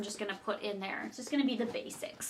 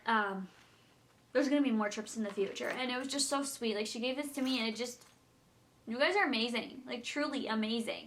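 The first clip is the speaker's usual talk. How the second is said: getting emotional. Real, not acted. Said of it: "getting emotional".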